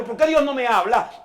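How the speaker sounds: ordinary talk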